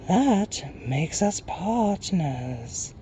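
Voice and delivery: high, soft, very slow creature; airy Night Hob. A narrator's reading. Night creature claiming partnership, soft high hoot.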